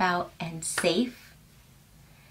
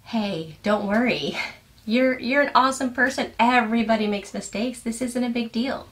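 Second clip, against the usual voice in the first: put-on higher, brighter voice, like a kind parent comforting a child; a light play at a reassuring caregiver; soothing a child who made a mistake, gently reassuring; 4 semitones higher than usual. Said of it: "Your caregiver didn't say".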